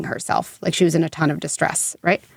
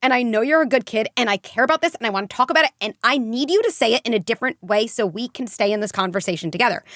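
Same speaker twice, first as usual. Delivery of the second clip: higher, firm but loving parent; sturdy parent; 4 semitones higher than usual. Shown as a demonstration. Parent to an upset kid, firm and loving. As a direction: show a parent staying calm and connected. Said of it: "Like, that is sturdy".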